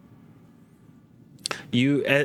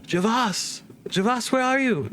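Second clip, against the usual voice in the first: distant woman calling; 11 semitones higher than usual. Acted. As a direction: imitate a woman's searching cry from afar. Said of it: "Just more distant".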